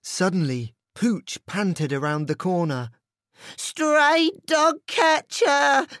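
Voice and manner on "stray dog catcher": very high, loud, slow panicked yell; barked warning. A narrator's reading. Pooch warns his friends of danger, high panicked yell. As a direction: shout the alarm. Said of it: "he barked".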